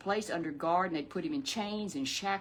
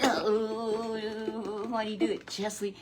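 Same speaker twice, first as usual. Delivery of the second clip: lightly tearful puppet voice; puppet voice, crying; 3 semitones higher, much slower than usual. Acted. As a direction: puppet whimpers the question.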